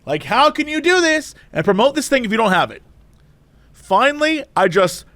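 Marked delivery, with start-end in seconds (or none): 0.2-2.8 pitched-up indignant customer, not truly screaming; mock Karen complaint. Woman retelling her complaint to manager, indignant. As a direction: imitate an outraged complainer. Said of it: "she's screaming at this person".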